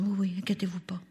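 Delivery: soft unvoiced reassurance; reassuring whisper. Grandmother reassured in a soft whisper. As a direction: whisper it gently, no voice.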